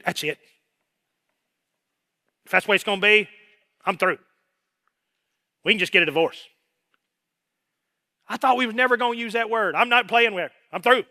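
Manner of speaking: loud, heated quitting; mild angry ultimatum. Retold or imitated. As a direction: storm toward the door. Person quitting in anger.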